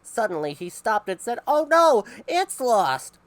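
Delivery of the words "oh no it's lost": high loud shocked gasp of words; sudden panic at the loss; alarmed cry. Acted. Man discovers loss.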